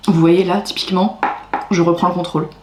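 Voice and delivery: talking with a mouthful; words around a bite of food; mouth full. Real, not acted. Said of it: "je vous parle la bouche pleine".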